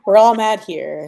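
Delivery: loud, slow, laughing quip; a real laugh riding a slow joke. Real, not acted. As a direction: toss it off through a laugh.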